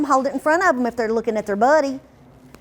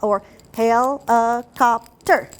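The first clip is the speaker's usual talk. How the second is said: slowly chopped into beats; syllable-by-syllable; much slower than usual. Shown as a demonstration. Teacher showing tapping for older kids, slow and chopped. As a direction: tap each syllable out slowly. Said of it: "you can do, uh".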